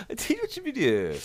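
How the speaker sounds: very high-pitched silly voice. Pretend. Answering co-host's teasing video question, in a silly voice. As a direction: squeak it out in a daft high voice.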